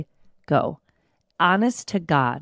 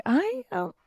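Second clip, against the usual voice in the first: dramatic sick voice. Retold or imitated. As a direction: play it over the top, as if half dead. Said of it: "And I was like".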